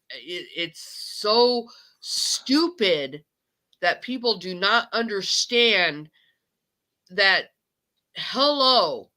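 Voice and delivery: angry, upset outburst with stretched stresses; venting. Real, not acted. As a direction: let it all out, emphatic and fed up. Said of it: "I had to let that all out".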